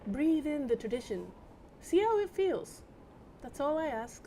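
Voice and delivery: stiff, formal gentleman voice. Acted. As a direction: read it like a proper Londoner. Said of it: "wrong voice because it's the wrong character".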